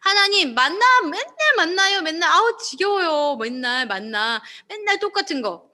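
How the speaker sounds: bored, slowed-down grumbling about the same food every day; whiny complaint. Retold or imitated. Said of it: "불평".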